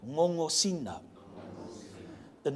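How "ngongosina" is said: "Ngongosina" with both NGs nasal; no hard G anywhere in "Ngongosina"; NG as in singer. Shown as a demonstration. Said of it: "G is an N G sound, as in singer".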